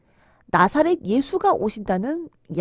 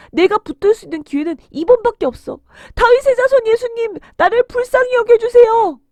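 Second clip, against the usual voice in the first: urgent, building to a high loud cry; resolve, then shout for mercy; desperate louder shout; 10 semitones higher, 8 dB louder than usual. A narrator's reading. Beggar seizes his only chance with Jesus, desperate shout. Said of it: "더 크게 소리를 질렀어요".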